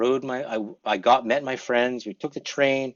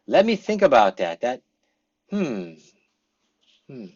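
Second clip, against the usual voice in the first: thoughtful pause; 5 dB louder than usual. Shown as a demonstration. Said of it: "Use one of these".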